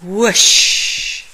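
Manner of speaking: big breathy whoosh; loud whoosh. A narrator's reading. Narrator sounding Santa shooting out of the chimney. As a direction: blow it out like wind rushing.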